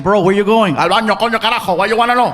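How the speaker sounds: loud, defensive Cuban answer; serious Cuban snap. Retold or imitated. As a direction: bark it back like it's an insult. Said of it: "It's very serious".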